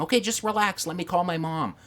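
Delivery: mock-wife voice brushing him off; imitated wife. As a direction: raise the pitch for an imitation of her. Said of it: "And she kept saying".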